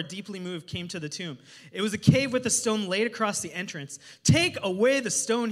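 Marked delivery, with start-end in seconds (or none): 4.2-5.5 a light touch of command, louder; mildly voiced Jesus ordering. A narrator's reading. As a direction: read the command a bit raised. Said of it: "he said".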